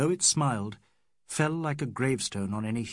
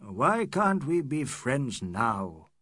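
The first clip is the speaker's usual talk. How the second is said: affectionate; slower than usual. Acted. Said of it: "holding him affectionately".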